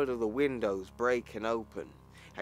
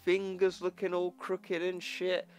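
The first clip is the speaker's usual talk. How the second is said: excited description; 7 semitones higher than usual. Real, not acted. Describing creepy Hulk image, excited.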